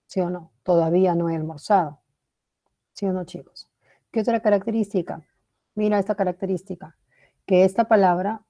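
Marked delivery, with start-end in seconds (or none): 0.6-2.0 "Todavía no he almorzado" stated, without a questioning lift; statement intonation. Shown as a demonstration. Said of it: "puede ser entonación de afirmación".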